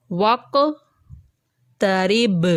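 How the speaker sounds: وقترب drawn out slowly, final b bounced strongly; strong final qalqala. Shown as a demonstration. Teacher shows word-final bounce: strong b echo. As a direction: stretch وقترب and spring the last b. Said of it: "با کی آواز زیادہ کیوں نکلی".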